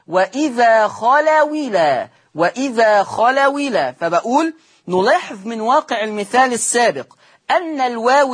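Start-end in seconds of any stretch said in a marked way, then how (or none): 0.1-3.9 وإذا خلوا إلى said as خلوِلى, kasra on the waw, no hamza; slow recitation moving the hamza's kasra onto the waw; recited with naql. Shown as a demonstration. Teacher repeats the naql example for students, kasra on the waw. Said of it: "حطيتها على الواو".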